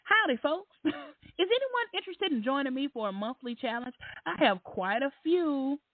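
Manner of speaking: lightly mock the cheery poster; a hint of a sugary host voice; put-on voice. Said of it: "Here's another one".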